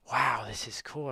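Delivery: loud, delighted wow; retold delight, punched out loud; impressed delight. Retelling the video chat with a Canadian, impressed delight. Retelling meeting a normal person.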